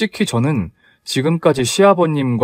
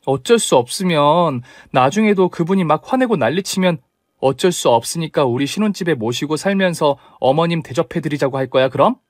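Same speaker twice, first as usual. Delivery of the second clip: mildly heated, higher-pitched start; indignant retort; 3 semitones higher than usual. Acted. Bride challenges fiancé's excuse, indignant retort. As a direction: throw his excuse back at him. Bride argues back in quarrel.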